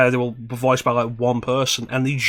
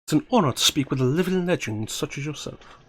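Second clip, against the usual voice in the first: lightly voiced young woman; 3 semitones higher than usual. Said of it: "German for Mei Ling".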